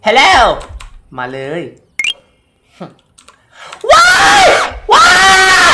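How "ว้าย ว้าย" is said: startled scream. Real, not acted. Jump scare in game.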